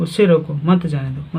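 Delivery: short break after रोको, मत joined to जाने दो; pause after रोको. Shown as a demonstration. Teacher explaining the meaning of stopping, pause after रोको. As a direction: close off रोको, then say "मत जाने दो" together. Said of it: "मतलब रोकने की बात".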